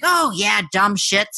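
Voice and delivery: a hint of a dismissive old grandma; grandma impression. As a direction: toss it off like a grandma. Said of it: "doesn't this just sound like Grandma?".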